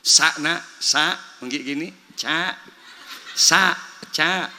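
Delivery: Sa and ca said as separate short syllables, contrasting the two sounds; letter sounds. Shown as a demonstration. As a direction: sound out sa then ca like a drill. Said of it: "cara melafatkan huruf". (melafalkan sa dan ca)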